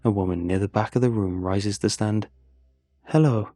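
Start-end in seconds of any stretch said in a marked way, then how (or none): 3.1-3.5 put-on icy, heavy Russian accent, a touch louder; cold Russian greeting, accent laid on thick. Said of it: "her accent thick".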